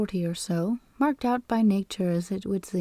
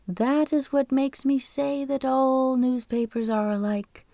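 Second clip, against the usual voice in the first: lightly voiced fussy clerk holding forth; falsetto voice; 3 semitones higher than usual. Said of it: "in a falsetto voice".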